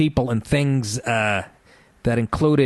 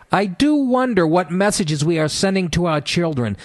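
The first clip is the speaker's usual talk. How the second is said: raised, prim mocking voice; prissy quoted activist; 5 semitones higher than usual. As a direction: read it like a pearl-clutching scold. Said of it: "quoting Pauline Turley".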